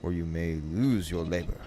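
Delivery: lilting, deliberate verse reading; lyrical poem recital. Acted. Streamer reading A Valentine to chat, lilting and deliberate. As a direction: recite in measured phrases with rising and falling tune.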